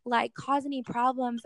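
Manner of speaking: mild imitation of the husband fretting; husband's worried voice. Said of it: "He was like".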